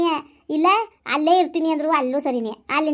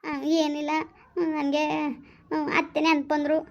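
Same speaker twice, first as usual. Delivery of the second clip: softly weeping; 3 dB quieter than usual. Acted. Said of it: "ಯಾಕ್ ಅಳ್ತಾ ಇದ್ದಿಲ್ಲ?".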